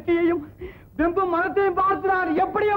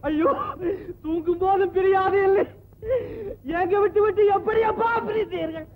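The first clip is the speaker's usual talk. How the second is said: weeping lament, voice lifted and breaking; tearful lament; 3 semitones higher than usual. Acted. Son weeping over his dead father, tearful lament. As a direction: cry the words out over your father's body.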